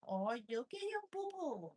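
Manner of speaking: high cooing pet voice; funny cat sounds. Shown as a demonstration. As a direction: show the funny sound he likes. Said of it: "he likes when I make those".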